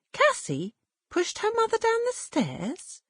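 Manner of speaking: high, shocked woman's question; surprised gossip. A narrator's reading. Second woman shocked by the gossip. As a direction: gasp it out in disbelief. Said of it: "a second female voice said".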